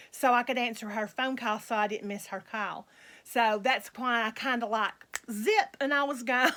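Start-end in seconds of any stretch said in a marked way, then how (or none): 5.3-6.5 laughing. Real, not acted. Laughs mid-line about hanging up.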